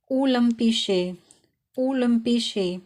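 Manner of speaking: ओलंपिशे said slowly, Y sounded as a rounded ü; slow, careful ओलंपिशे with a rounded ü; German Y as ü. Shown as a demonstration. Teacher showing learners Y as ü, slowly. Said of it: "यहाँ पे ये ऊ की sound दे रहा है".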